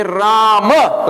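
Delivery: Rama with a clear final a; Sanskrit Rama. Shown as a demonstration. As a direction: Rama said the Sanskrit way, the last a voiced. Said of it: "like that".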